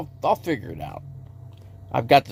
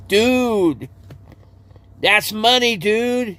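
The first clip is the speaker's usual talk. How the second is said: higher, laid-back dude voice; higher chill-dude Cajun cook; Cajun cook impression; 7 semitones higher, much slower than usual. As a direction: toss it off like a cool Cajun cooking guy. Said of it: "he talks like that".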